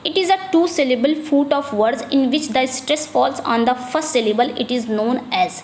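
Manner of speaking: slow, careful reading of an exam question; slow dictation read. Acted. Teacher reading a quiz question slowly to the class. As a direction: read each word out slowly for students.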